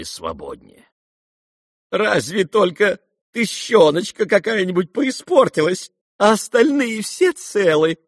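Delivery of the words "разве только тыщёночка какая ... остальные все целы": tender relief. Acted. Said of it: "с умилением выговорил Лебедев".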